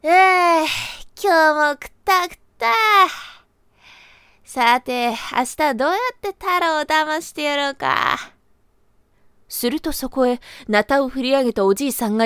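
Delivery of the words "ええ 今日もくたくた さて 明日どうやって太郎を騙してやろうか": scheming rabbit. Acted.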